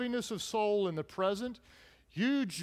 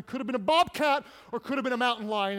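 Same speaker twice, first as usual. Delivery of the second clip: bobcat punched; 3 semitones higher, faster than usual. Real, not acted. Mounting fear in list.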